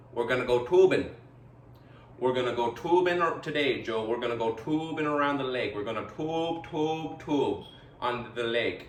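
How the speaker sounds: a hint of a Swedish chef with a mobster edge; lightly mock Swedish-mobster accent; Swedish chef mafioso. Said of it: "sounded a little bit like the Swedish chef from the Mafia".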